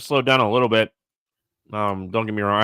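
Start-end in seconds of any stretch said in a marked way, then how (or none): 1.7-2.6 talking around a mouthful of ice; mouth full. Real, not acted. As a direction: ice in the mouth, words a bit muffled. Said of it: "I have ice in my mouth".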